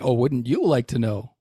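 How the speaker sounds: a touch of testy sass; testy, teasing comeback. Acted. AI Biff dodging Joe's question about the song, testy. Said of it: "you don't have to get testy".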